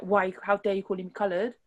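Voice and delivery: mildly indignant retort, played lightly; a touch of in-your-face outrage, acted; mock confrontational. Showing how not to call someone out, mildly indignant. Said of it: "not straight in the face".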